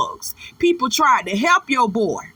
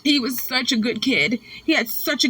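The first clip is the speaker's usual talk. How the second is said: mock grieving mother. Mimicking Miss Lori talking about her son, mock grieving. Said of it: "sit over here and make it seem like".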